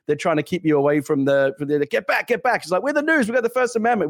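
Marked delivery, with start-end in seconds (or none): 1.8-2.6 mock cop yell. Cops pushing news crew back. 2.8-4.1 mock reporter protest. Reporter retorting to the cops.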